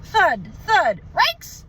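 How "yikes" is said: high panicked dog cry; Scooby yelp. A narrator's reading. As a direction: yelp it like a scared cartoon dog. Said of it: "Scooby cried".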